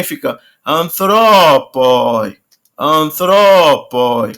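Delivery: "antropoi" slowly, stress pulled to the second-to-last syllable; slow stress demo. Shown as a demonstration. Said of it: "como é longo também". ("antropoi" devagar, acento na penúltima)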